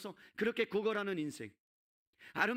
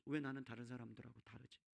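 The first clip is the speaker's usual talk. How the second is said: brooding; 7 semitones lower, 10 dB quieter than usual. Acted. Acted brooding thought of disabled man.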